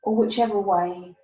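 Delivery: gentle, unhurried meditation lead-in with long pauses; guided meditation. Real, not acted. Eases listeners into meditation.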